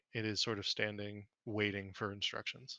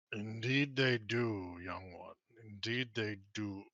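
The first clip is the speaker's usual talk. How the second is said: a lounging dragon savoring the words; hint of a smug old dragon; slow dragon purr; slower than usual. Dragon speaks after guttural laugh.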